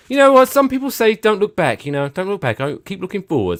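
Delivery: high mock pep talk; mock inspirational. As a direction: preach it like a cheesy guru.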